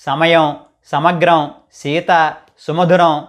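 సమయం with a plain dental s, tongue tip near the teeth; light dental s on సీత; dental sa examples. Shown as a demonstration. Teacher showing viewers the dental s, carefully. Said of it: "ఈ విధంగా పలకాలి".

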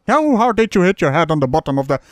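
winded, short of breath; gasping between words. Real, not acted. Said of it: "I'm running out of breath here".

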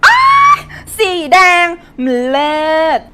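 high, loud, slow shrieking delight; squealing shout. Acted. Shrieking to sweetheart in the shop, hammed-up squeal. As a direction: shriek like you just found treasure. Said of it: "ถ้าจะกรี๊ดก็ไปกรี๊ดข้างนอก".

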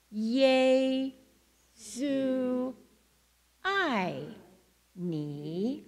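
"Yesu ai ni" drawn out with pauses; slow Chinese with motions. Shown as a demonstration. Leading the congregation in the phrase with motions, drawn out. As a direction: pause between each word, "Yesu", "ai", "ni". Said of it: "we've got some motions to go with that".

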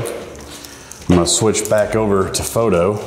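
echoey room sound; talking in a small echoing room. Real, not acted. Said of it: "Sorry for the echo in here".

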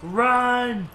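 high, loud warning cry; urgent shout. Pretend. Player warns partner the monster is back, shouting. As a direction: yell for your partner to flee. Urging flight from game monster.

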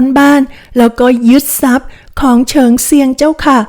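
a nervous maid breaking bad news, lightly played; lightly voiced young maid. Maid reporting the family's ruin to her young mistress, lightly voiced.

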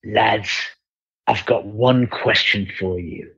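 slow, measured Cockney; drawn-out Cockney impression; Cockney accent. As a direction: imitate a Cockney questioning the lads, unhurried. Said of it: "like, a Cockney accent".

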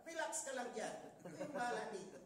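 chuckling while telling him to relax; laughing reassurance. Retold or imitated. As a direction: laugh it off, easy and light. Omar calming the startled man. (natatawang pagpapakalma)

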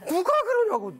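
upset outburst. Retold or imitated. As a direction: blurt it out as a choked-up father. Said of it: "울컥하고 올라온 말이".

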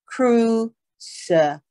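"crucify" with K at the start and S in the middle; careful pronunciation. Shown as a demonstration. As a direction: model "crucify" clearly for learners. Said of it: "注意这个读法哈，crucify".

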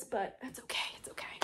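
hushed whispered reassurance to herself; whisper to self. Real, not acted. Moving her beloved books to make room, whispering reassurance. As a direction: murmur it as if soothing yourself.

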